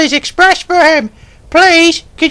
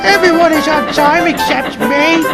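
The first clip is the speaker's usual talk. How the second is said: sighed sadly; 13 semitones higher than usual. Acted. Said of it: "he sighed sadly".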